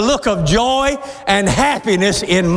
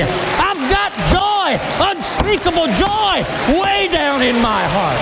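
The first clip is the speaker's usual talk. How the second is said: joyful shout; 4 semitones higher than usual. Real, not acted. Preacher shouting about joy.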